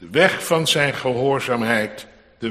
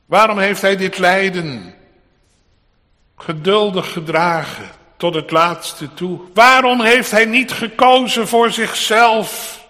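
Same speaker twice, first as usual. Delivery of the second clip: raised pulpit questioning, surging at the end; impassioned preaching; 6 semitones higher, 5 dB louder than usual. Acted. Preacher asks why Jesus bore this suffering, impassioned. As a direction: drive the question home with mounting force.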